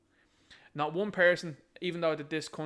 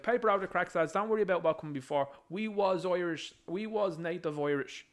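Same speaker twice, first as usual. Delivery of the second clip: mocking quote; 4 semitones higher than usual. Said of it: "It's like".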